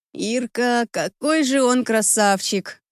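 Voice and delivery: slow, dreamy, swooning; dreamy sigh. Acted. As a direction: sigh it out, lost in a crush. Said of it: "вздыхает Маша". (мечтательный вздох)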